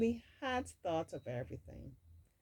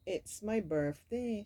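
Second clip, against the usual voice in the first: excited shout; 4 semitones higher than usual. Acted. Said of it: "she shouted excitedly".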